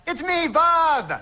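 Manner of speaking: high, slow put-on voice for Bob's caller; a high, slow goofy character voice; silly character voice. Comic character announces himself.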